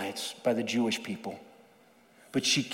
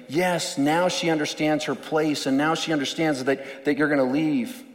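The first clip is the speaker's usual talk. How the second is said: lightly voiced smug agreement; a hint of gloating disciples; 2 semitones higher, 4 dB louder than usual. Disciples gloat that she knows her place, light smug voice. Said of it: "you can almost hear the disciples saying".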